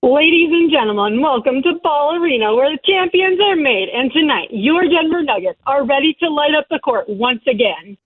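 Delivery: lightly done arena announcer. Acted. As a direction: open the game like a PA announcer. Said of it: "give us your best Nuggets announcer voice".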